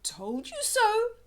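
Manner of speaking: high, loud sing-song told-you-so; smug parents. A narrator's reading. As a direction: tease him triumphantly. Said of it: "said Mum and Dad".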